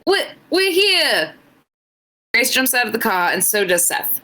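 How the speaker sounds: put-on a shaky try at an Irish accent, drifting British; reading fan fiction aloud in a so-so Irish lilt; attempted Irish accent. Streamer reading fan fiction to chat, in a struggling Irish accent. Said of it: "trying her best to do an Irish accent".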